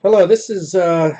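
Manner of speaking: hello said high and loud; put-on announcer greeting; a hammed-up show host; mock announcer.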